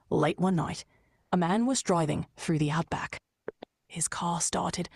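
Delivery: soft, fearful telling that sinks to a whisper; a touch scared, fading to a whisper; scared storytelling. Acted. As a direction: tell it like you're afraid of the dark. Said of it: "I want you to sound scared".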